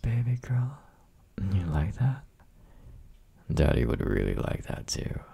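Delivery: put-on breathy close-mic whisper to a girlfriend; teasing boyfriend whisper, close and intimate. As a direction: whisper it right into her ear.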